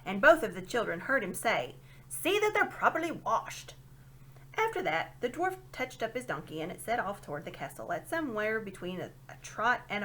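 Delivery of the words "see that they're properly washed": failed whisper. A narrator's reading. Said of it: "no doubt intended to whisper".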